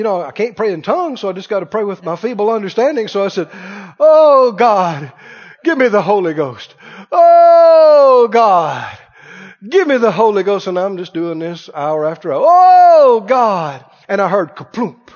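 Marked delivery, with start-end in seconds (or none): 4.0-10.7 loud cries of Oh God, then pleading; crying out to God. Retold or imitated. Young man tarrying at the altar, loud pleading cry. 12.4-13.8 loud cries of Oh God, then pleading; crying out to God. Retold or imitated. Young man tarrying at the altar, loud pleading cry.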